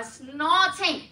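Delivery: hammed-up British SNORTING; British dialect. Shown as a demonstration. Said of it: "Say that with me in a British dialect".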